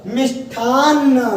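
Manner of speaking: मिष्ठान्न said slowly, syllable by syllable; slow careful pronunciation. Shown as a demonstration. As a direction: drag out मिष्ठान्न for the class. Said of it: "ऐसा होता है बेटा". (मिष्ठान्न धीरे धीरे साफ़ उच्चारण)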